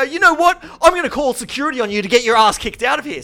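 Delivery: high, loud retold threat; snapping threat. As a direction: re-enact laying down the law angrily. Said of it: "And then I just snap it".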